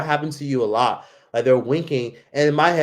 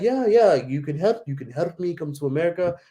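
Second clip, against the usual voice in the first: insistent stranger; 4 semitones higher than usual. Retold or imitated. Guy insisting.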